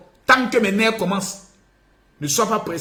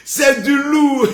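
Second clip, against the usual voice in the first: slow laughing shout; 5 semitones higher, much slower than usual. Acted. Hypes his own video. (crié lentement en riant)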